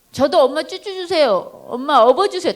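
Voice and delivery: lightly voiced child begging mom; regressed child. Older child wanting mom's care after a sibling arrives, lightly childish pleading. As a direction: plead like a little kid wanting to be babied. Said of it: "동생이 생기면 이 아이의 행동이 뒤로 거꾸로 가".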